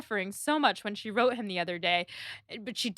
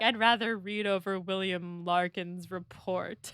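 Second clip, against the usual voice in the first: dry Knightley; 3 semitones lower than usual. Retold or imitated.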